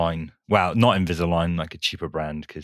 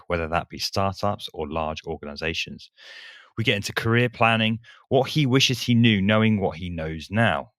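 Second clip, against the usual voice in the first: reading an intro with a lisp; lisping through braces; 2 semitones higher than usual. Real, not acted. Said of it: "that really emphasized your lisp".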